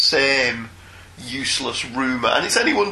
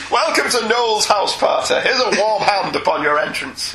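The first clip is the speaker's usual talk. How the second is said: Noel Edmonds; 4 semitones higher than usual. Retold or imitated. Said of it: "I'll be Noel Edmonds".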